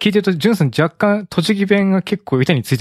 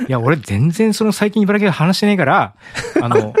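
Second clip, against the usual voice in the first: Ibaraki dialect; 4 semitones higher than usual. Shown as a demonstration. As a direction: put on an Ibaraki accent, pitch lilting upward. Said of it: "僕も茨城弁で言いますかね".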